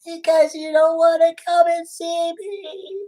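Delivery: slow tearful whine; fake crying. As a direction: whimper through pretend tears. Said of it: "stop crying".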